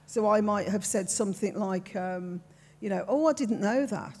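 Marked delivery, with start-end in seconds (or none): 3.1-4.2 natural Brummie lilt; own Brummie accent. Shown as a demonstration. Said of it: "That's how I'd say it".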